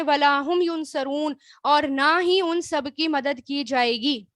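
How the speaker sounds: slow, ولا هم ینصرون with هم weighted; stress on هم. Shown as a demonstration. Teacher tells advanced students to listen, slow and stressed on ہم. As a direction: lean on ہم and say the verse slowly. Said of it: "اب اس میں advance والے سنیں".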